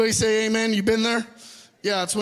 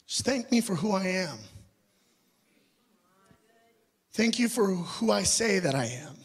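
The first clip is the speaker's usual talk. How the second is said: gentle voice of God; 2 semitones lower, 3 dB quieter than usual. Retold or imitated. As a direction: reassure him like a patient father, gently. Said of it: "really gently".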